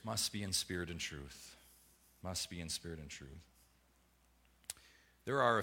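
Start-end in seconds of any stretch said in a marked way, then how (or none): 0.0-1.6 low, quiet and deliberate, leaning on "must"; hushed, weighty "must be in spirit and truth"; solemn quiet statement. Shown as a demonstration. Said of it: "Jesus says". 2.2-3.4 near-whispered echo of "Must be in spirit and truth"; softer echo. Shown as a demonstration. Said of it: "Jesus says".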